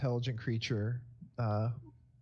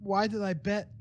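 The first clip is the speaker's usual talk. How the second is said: put-on higher-pitched, regretful drunk's lament; drunken self-pity; 7 semitones higher than usual. Game master voicing a drunkard's thoughts from a barrel, higher self-pitying wail. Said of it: "it's like".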